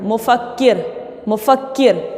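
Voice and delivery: "मुफक्किर" with quick short mu and kir; short vowels. Shown as a demonstration. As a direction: keep u and i brief in "मुफक्किर". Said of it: "काफ को भी ज़रा जल्दी पढ़ रही हूँ". ("मुफक्किर" में मीम और काफ जल्दी पढ़कर)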